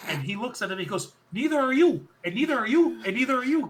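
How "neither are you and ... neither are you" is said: high and loud, repeated jab at each one; a loud, high-pitched retort pointed at each woman; mocking retort. Wrestling promo retold with laugh.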